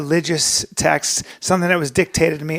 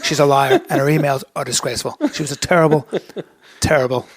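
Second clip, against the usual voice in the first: a light, half-hearted Trump impression; lightly voiced Trump rally talk; bad Donald Trump; 3 semitones lower than usual. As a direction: brag like Trump, loosely. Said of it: "that was a bad Donald Trump".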